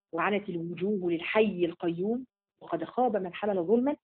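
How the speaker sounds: slow, measured chant-like recitation; the preacher recites the verse; Quranic recitation. Acted. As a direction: recite it slowly and solemnly.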